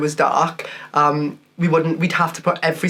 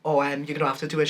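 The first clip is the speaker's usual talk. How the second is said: hushed; 4 semitones lower, 6 dB quieter, faster than usual. Retold or imitated. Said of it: "And I went".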